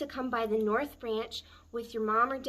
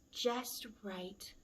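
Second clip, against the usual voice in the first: soft, drowsy murmur; sleepy murmur; 9 dB quieter than usual. Acted. Girl falling asleep in the cozy bed murmurs softly. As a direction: murmur it as you drift off to sleep. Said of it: "Aluki murmured".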